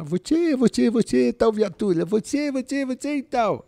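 high, hammed-up boss voice swapping r for l; boss with Cebolinha speech. Retelling a police shift, teller mimics boss assigning cars in a high mock voice. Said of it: "Ela metia o Cebolinha".

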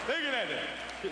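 drawn out, slow; slow amazed stare. Retold or imitated. Uncle Gus gazes at the huge fire, slow and awed. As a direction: let each word hang in awe. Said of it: "it's like".

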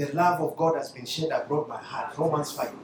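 quiet, nearly whispered I love you; soft declaration. Shown as a demonstration. Preacher shows how to tell a hard boss love, softly. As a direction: say it under your breath to yourself. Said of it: "sema tu".

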